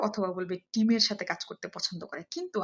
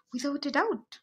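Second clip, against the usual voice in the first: "Without a doubt" with higher, emphatic intonation; stressed, emphatic; 6 semitones higher, much slower than usual. Shown as a demonstration. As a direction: stress "Without a doubt" with conviction, pitch raised. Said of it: "stress দিয়ে আপনি এই এক্সপ্রেশনটা". ("Without a doubt" জোর দিয়ে, উঁচু সুরে)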